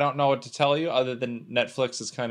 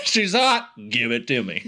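lovestruck dude, replayed on request; 3 semitones lower than usual. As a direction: play the smitten movie dude on request. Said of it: "Do that again, Kyle".

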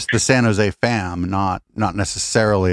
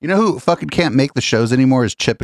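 ordinary talk, nothing marked

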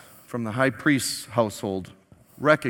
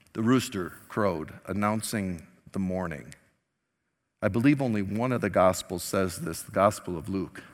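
ordinary talk, nothing marked

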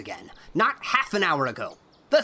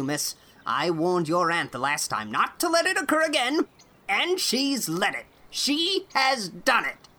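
put-on angry old man; 4 dB louder than usual. A narrator's reading. Irate farmer scolding Anne over the cow, furious. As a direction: rage at the girl, pounding each word. Angry neighbor voiced in story.

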